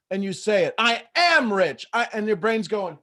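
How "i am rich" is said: "I am rich" slow, loud, higher; more forceful. Acted. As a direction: push hard on a drawn-out "I am rich". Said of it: "say it with even more".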